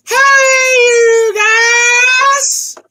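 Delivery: very high, loud, stretched-out shout; drawn-out holler. Acted. Character greeting everyone on arrival, hammed-up high holler. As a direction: holler it long and piercingly high. Script line shouted in funny voice.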